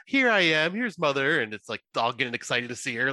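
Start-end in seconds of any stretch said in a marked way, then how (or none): 0.1-1.4 put-on baby talk. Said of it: "baby talk to it".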